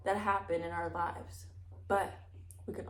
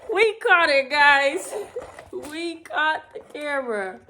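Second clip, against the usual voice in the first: loud, laughing words to the viewers; 6 semitones higher, 8 dB louder, slower than usual. Real, not acted. Reader telling viewers the camera was caught, laughing. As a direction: talk through laughter.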